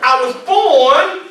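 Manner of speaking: loud, slow call line; call and response lead. Shown as a demonstration. Motivational speaker calling to the room, loud and slow. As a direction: lead the crowd, big and slow. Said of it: "repeat after me".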